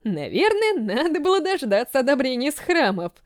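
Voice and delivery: shaky, breaking voice. Acted. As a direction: voice cracking with fear. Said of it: "срывающимся голосом произнёс".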